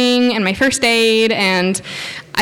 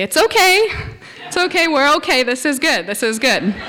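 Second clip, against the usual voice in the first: reassuring; 5 semitones higher than usual. Retold or imitated. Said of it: "I slowly back up and say".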